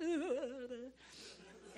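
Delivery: high wobbly wordless warble; hammed-up tuneless noise; mock bad singing. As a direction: imitate your own awful singing. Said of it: "I sung the worst of it".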